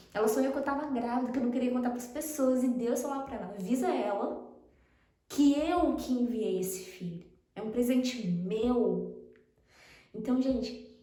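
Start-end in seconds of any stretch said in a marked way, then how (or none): 3.5-9.2 slow, measured voice of God, lightly acted; solemn divine message. God telling the friend about the child, slow and solemn. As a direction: lightly voice God, each phrase drawn out. Voicing God's words to friend.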